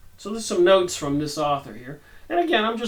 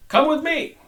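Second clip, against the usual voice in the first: Saint Peter; 11 semitones higher, 6 dB louder than usual. Acted.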